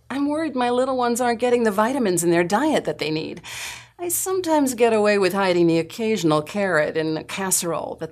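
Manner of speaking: witty, conversational mom voice; chatty parent, light humor; lighthearted parent. Acted. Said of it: "conversational pace and a witty sense of humor".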